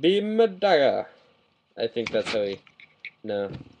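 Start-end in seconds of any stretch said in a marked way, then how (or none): 0.0-1.1 put-on high, slow, terrible Japanese accent. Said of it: "was a terrible Japanese accent".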